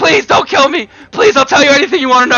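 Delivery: frantic, terrified, high, rushed voice. The little guy, scared for his life, begs Rogar: terrified begging. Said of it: "he just starts begging".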